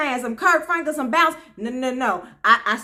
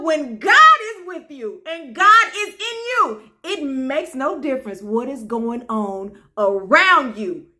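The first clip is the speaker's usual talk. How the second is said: emphatic, slow church delivery; preaching; 4 dB louder, slower than usual. Real, not acted. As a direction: drive the message home like a preacher. Preaches closing message to viewers.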